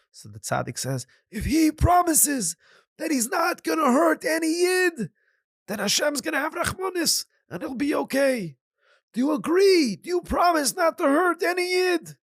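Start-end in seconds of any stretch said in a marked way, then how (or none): 1.3-12.2 stern rabbi. Acted. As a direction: lay down the condition, then press for the promise. Rabbi sets his condition.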